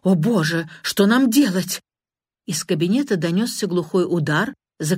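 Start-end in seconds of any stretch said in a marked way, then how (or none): 0.0-1.8 cry out. Acted. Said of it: "крикнул".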